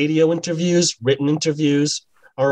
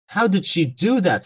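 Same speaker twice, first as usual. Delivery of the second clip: shouted question; 6 semitones higher than usual. Acted. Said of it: "someone shouted from the front row".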